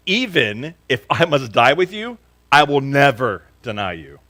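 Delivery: loud, high vow of loyalty; emphatic insistence. A narrator's reading. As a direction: swear it with all your might. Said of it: "But Peter insisted emphatically".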